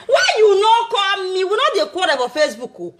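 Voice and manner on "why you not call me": mock crying plea. Pleading with Monica to call, mock sobbing. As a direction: wail the question in mock grief.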